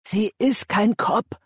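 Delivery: high, slow, emphatic denial; desperate insistence. A narrator's reading. Ben defends Andy to the gang, insistent. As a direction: spell it out slowly, pleading.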